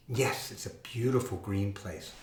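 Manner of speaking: breathy hushed whisper. Acted. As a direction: whisper it like a secret. Soft whisper about Ireland.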